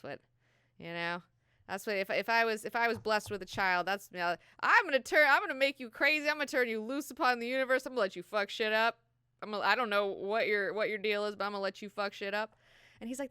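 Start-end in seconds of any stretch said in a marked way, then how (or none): 4.6-12.5 high, loud and fast; gleeful parent. Retold or imitated. Imagined parent promising to let a child loose, high and fast.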